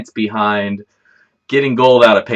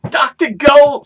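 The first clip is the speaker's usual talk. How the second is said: shouted high and loud like a showman; a hammed-up TV doctor intro; grand announcement; 7 dB louder, slower than usual. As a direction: boom out your new stage name. Announcing his new persona title.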